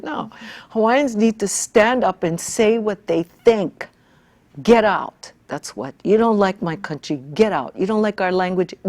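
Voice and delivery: firm, forceful retelling of telling them off; defiant retort. Retold or imitated. To angry newspaper letter writers, a forceful retold retort. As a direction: push back hard, repeating get out.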